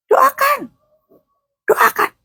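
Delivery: high, short repeated calls; exhorting cry. Real, not acted. Preacher urges wives to keep praying, high exhorting cry. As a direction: call it out high and urgent. Urging congregation to pray.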